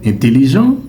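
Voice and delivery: Intelligent with an oral "é"-like first vowel; first option of two. Shown as a demonstration. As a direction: say Intelligent opening on a plain "è", not nasal. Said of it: "comment le prononcez-vous?". (Intelligent prononcé avec un « è » oral au début)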